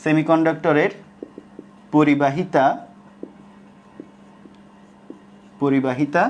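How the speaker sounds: word by word with very long pauses; slow dictation. Shown as a demonstration. Teacher dictates a conclusion to the class, slow dictation. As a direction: dictate slowly, leaving time to write. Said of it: "লিখো যে".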